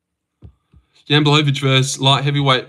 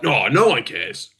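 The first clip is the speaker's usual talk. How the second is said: lightly voiced smug white guy; a hint of a smug white guy; mock white guy. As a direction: toss it off as a dismissive white guy. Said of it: "Some white guy's like".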